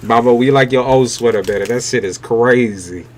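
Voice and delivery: a hint of a kid roasting mom's outfit; mock kid roast. Kids roasting their mom's outfit, lightly voiced and laughing. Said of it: "your kids will tell you".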